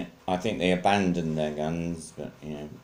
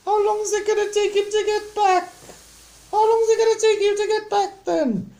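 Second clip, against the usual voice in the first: hammed-up falsetto complaint; 7 dB louder than usual. Boy and mam fretting that Sam's gone to Waterloo, high wailing voices. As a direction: complain in a piercing mock falsetto.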